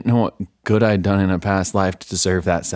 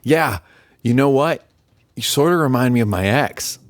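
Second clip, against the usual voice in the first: nervous rambling; 6 semitones higher, 4 dB louder than usual. Acted. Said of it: "caused me to ramble".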